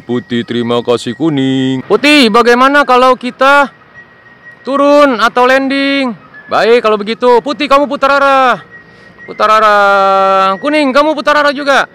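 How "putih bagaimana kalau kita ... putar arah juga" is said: bossy little plane, pitched high; high toy plane voice. Acted. Plane tells Putih to go first, high and insistent. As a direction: urge your friend ahead like a tiny plane. Planes arrange landing order.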